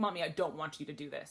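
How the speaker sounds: ordinary delivery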